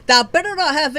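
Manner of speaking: loud cry, then a slow loud seethe; furious shout. Real, not acted. Gamer fuming after losing the pull, in slow loud fury. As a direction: stretch out every word in rage.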